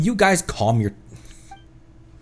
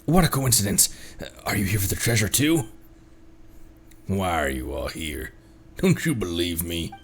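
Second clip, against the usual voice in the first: lower, softer hoarder voice; gruff hoarder; 6 semitones lower, 4 dB quieter than usual. Acted. Streamer voicing a treasure hoarder to the agents, low and sly. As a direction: play a shifty thug, low and sly.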